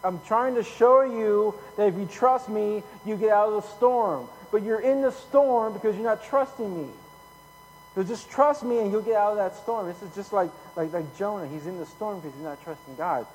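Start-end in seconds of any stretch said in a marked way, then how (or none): 0.0-9.9 higher, louder, insistent pleading; preacher voicing God. God answering someone in a financial storm, raised insistent voice. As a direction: press the point as God answering back. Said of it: "and God's like".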